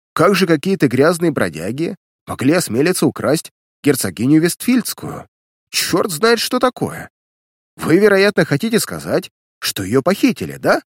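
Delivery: high-pitched indignant protest; agitated. A narrator's reading. Millionaire protesting at the idea of kidnapping, agitated and indignant. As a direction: splutter in disbelief, voice climbing high. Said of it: "«Не волнуйтесь, пожалуйста»".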